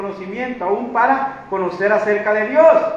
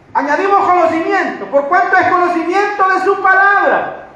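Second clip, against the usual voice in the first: raised, forceful sermon delivery; preaching; 5 semitones higher, 5 dB louder than usual. Real, not acted. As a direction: preach it out in emphatic phrases.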